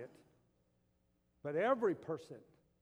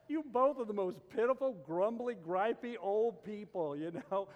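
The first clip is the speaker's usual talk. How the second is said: preaching emphasis; 6 semitones higher, 8 dB louder than usual. Real, not acted. Preacher teasing the grumpy old man.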